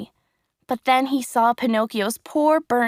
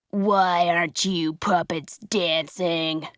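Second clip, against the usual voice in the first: low puppet master; 4 semitones lower, slower than usual. Acted. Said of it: "he shouted".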